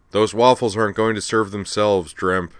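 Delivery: a boss barking at the waiter; irritable growl. Acted. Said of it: "an irritable voice growled".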